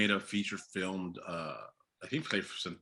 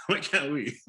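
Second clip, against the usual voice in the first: laughing; 10 semitones higher, 10 dB louder, slower than usual. Real, not acted. Joking bravado, laughing.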